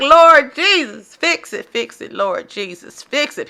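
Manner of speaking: mock desperate prayer, Lord Jesus drawn out; exasperated plea. Vlogger reacting to prices, mock desperate prayer. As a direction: beg the Lord to fix it, half-joking. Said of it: "And I'm like".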